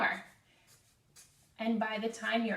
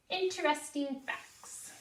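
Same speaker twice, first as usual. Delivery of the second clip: call and response; 5 semitones higher, 4 dB quieter than usual. Shown as a demonstration.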